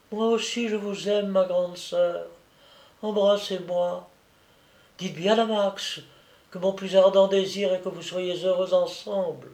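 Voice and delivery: put-on a sick child comforting his big sister; dying little boy. Dying child speaks, held voice. (petit garçon mourant, voix d'enfant douce et fragile)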